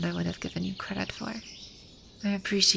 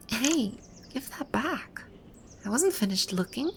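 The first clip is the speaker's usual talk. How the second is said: higher-pitched, sudden objection; indignant protest; 5 semitones higher than usual. Acted. Art snatched away while she looks, indignant protest. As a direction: jump in to stop them taking it.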